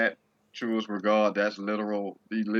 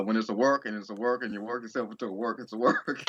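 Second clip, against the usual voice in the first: Hogan impression. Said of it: "this is when Hogan tweets".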